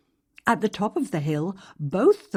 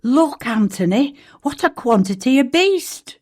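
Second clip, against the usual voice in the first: raised, louder call to a friend; excited call; 8 semitones higher, 5 dB louder than usual. Acted. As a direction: point it out, amazed and loud.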